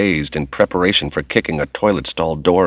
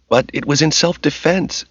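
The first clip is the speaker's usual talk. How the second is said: higher, lightly tearful protest; tearful complaint; 8 semitones higher than usual. A narrator's reading. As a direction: plead her case with a hint of tears. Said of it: "Tracy complained tearfully".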